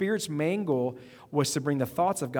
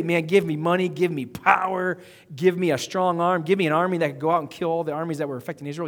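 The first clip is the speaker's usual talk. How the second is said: mock loud demand; 2 semitones higher, 6 dB louder than usual. Mock prayer Solomon didn't say.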